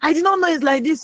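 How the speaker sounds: high, delighted exclamation, retold; mock overjoyed outburst; excited shout. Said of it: "She was shouting".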